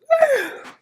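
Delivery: high-pitched sigh. Real, not acted. Overwhelmed, near tears after episode.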